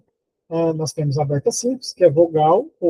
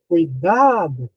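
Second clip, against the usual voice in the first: "cuidado" called with a drawn-out "DA"; restrained demo shout, "cui-DAAA-do"; mock warning call; much slower than usual. Shown as a demonstration. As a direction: stretch and swoop the "DA" in "cuidado". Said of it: "gritar essa palavra".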